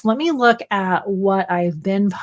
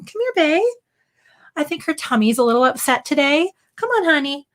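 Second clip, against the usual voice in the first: dog-talk voice; 6 semitones higher than usual. Real, not acted. Calling the dog over.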